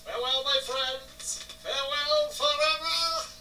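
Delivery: high, slow theatrical farewell; dramatic farewell. Pretend. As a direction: ham up a grand goodbye.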